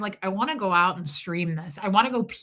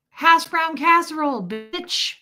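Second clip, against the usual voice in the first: mock hometown boast; 6 semitones higher, 5 dB louder than usual.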